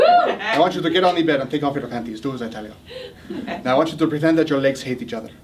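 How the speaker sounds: mock seductive Latin lover accent; comic Latin Casanova accent. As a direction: give bedroom orders in a Latin accent. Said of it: "you look at that Latin accent".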